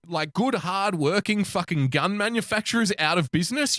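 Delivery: lightly acted indignant online commenter; mock outrage. Acting out an outraged internet commenter.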